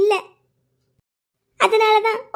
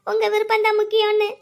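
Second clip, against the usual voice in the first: wailing. Acted. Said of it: "எதுக்கு இப்படி அலறீங்க".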